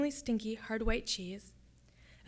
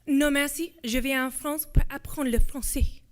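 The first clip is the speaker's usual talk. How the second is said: louder, self-assured French; confident teenager; 4 semitones higher, 7 dB louder than usual. A narrator's reading. Louisa refusing the soldier's offer of English, confidently. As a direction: declare it firmly, with youthful confidence. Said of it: "With all the confidence of a soon-to-be sixteen-year-old".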